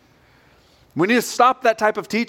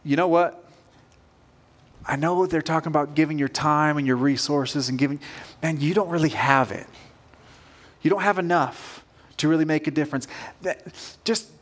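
lightly voiced inner doubter, a touch quiet; understated, like a nagging thought in the head; little inner voice; 3 semitones lower, 4 dB quieter than usual. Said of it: "we hear this little voice inside of our head".

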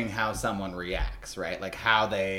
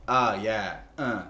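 deadpan, unmoved fake climax; imitating a totally unimpressed reaction; dead-faced; slower than usual. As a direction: act out pleasure with no enthusiasm at all. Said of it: "you're gonna be, like, dead-faced".

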